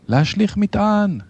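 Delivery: high-pitched urgent command; shouted order. A narrator's reading. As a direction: call the captain's order out high. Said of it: "צעק רב החובל". (צעקת פקודה דחופה)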